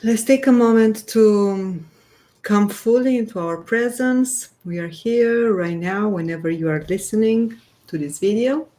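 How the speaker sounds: unhurried guiding voice with long pauses; guided grounding meditation. Real, not acted. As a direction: gently lead listeners into their breath, leaving space between phrases. Leads a short grounding meditation.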